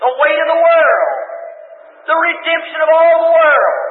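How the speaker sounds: rising, shouted gospel preaching; fiery preaching. Acted. Preacher to his congregation, in a shouting preacher's cry. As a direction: hammer each line home like a revival preacher.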